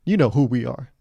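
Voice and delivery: lightly voiced smug company boasting; cocky brand. Dunkin' brand bragging to customers, lightly mock-cocky. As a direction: play it smug, as if everyone knows you. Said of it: "cocky Dunkin' and cocky Jamba".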